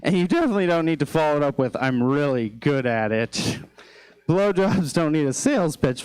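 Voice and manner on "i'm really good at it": mocking. Mocking the date's line.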